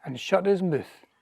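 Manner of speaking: rhythmic Scots poem reading aloud; lilting recital of Scots verse. Acted. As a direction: recite in measured verse, lingering on line endings.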